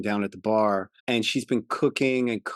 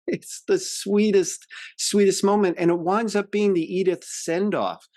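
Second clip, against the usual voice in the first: getting emotional; 8 semitones higher than usual. Real, not acted. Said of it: "And I'm getting emotional".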